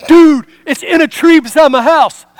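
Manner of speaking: high, loud mock alarm; hammed-up neighbor breaking big news; overdramatic. Neighbor telling him where the truck is, overdramatic. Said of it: "'cause he's so dramatic".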